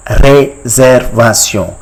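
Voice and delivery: "Réservation" slowly as ray-zair-va-syon; French pronunciation. Shown as a demonstration. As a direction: model "Réservation" slowly, with rolled r and French ending. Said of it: "It is called".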